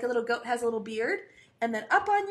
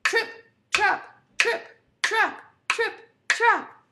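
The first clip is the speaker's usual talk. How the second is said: loud, high, punched hoof beats; really loud; 8 semitones higher, 6 dB louder, slower than usual. Shown as a demonstration. Big goat's hoofs crossing the bridge, really loud. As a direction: stomp out each word loudly. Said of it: "make a really loud sound".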